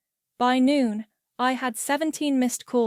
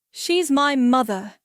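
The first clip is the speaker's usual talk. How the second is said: slow, louder insistence; forceful; 3 semitones higher, 5 dB louder than usual. Acted. Chris insisting to his wife after slamming the door, slow and forceful. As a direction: lean hard on each word.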